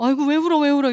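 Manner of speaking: loud, high flustered fussing. Shown as a demonstration. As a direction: make a big fuss over someone crying. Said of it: "호들갑 떨지 않아요".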